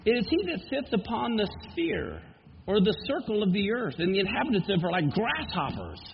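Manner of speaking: measured, solemn Bible reading; scripture reading. Acted. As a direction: read the prophecy with gravity. Reads Isaiah forty.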